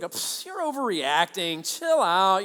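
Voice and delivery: drawn-out, scoffing dismissal; dismissive brush-off. Retold or imitated. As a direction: wave the complaint away. Voicing dismissive offender.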